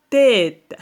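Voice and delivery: loud, drawn-out tête; syllable-by-syllable. Shown as a demonstration. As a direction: stretch tête out so syllables can be counted. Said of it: "combien de syllabes".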